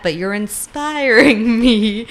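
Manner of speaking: stretched-out, slow mock admiration; gushing. Heroine to her half-shifted lover, gushing. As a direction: draw out the compliment, a laugh breaking in.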